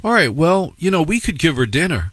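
other parent. Retold or imitated. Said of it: "the parent would say".

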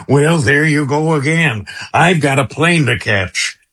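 lightly voiced folksy president impression; a hint of an old presidential quip; Ronald Reagan. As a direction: slip lightly into a famous president's voice. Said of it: "did you do your Reagan impression".

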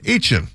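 "Etienne" as a quick AY-chun; two lazy syllables for "Etienne": AY-chun; slurred local pronunciation. Shown as a demonstration. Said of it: "That's how he says it".

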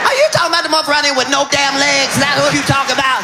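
incredulous outrage. Real, not acted. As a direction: fire it off fast in disbelief. Incredulous rant at committee.

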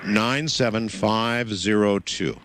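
slow, digit by digit; slow dictation. Real, not acted. Host giving caller the zip code, slow dictation. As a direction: let each number be written down.

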